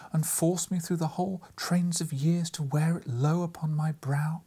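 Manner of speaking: a wounded spirit rebuking; reproachful ghost. Acted. The ghost rebuking Scrooge about the cap, reproachful whisper. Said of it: "exclaimed the ghost".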